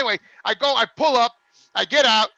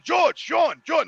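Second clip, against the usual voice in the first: calling out; 5 semitones higher, much slower than usual. Retold or imitated. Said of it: "I'm yelling".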